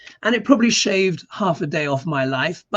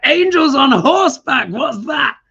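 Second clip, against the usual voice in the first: high, loud, laughing disbelief; mock surprise; 11 semitones higher, 8 dB louder than usual. Tourist baffled by the dish name, loud and laughing. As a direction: laugh it out in amazed confusion. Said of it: "I was like".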